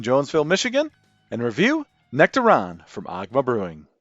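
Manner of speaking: lively host introducing the show; podcast intro. Acted. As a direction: announce the episode line-up with punchy emphasis. Podcast intro over music.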